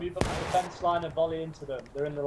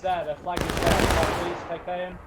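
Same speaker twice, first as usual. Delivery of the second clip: shouting orders over battle; 5 dB louder than usual. Acted. Captain orders volley in battle.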